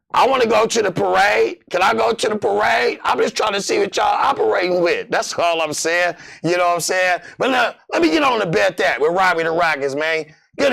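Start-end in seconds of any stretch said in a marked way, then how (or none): 0.1-5.1 fired-up eager shout; excited plea. Real, not acted. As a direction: beg to join the parade. Pleading to join the parade.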